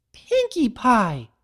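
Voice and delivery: loud, slow, stretched cry of horror; horrified shout. Acted. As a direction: shout her name in shock. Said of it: "she shouted".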